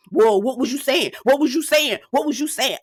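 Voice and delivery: insistent mock yell, pitch climbing; retold yelling. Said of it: "yelling at this man".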